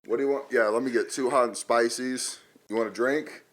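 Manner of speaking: pretend phone call. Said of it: "pretend you're on the phone and be like".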